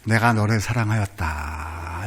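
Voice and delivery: gentle voice from above; voice of the Lord. Acted. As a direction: speak it slowly as God. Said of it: "그때 주님은 또 말씀하시죠".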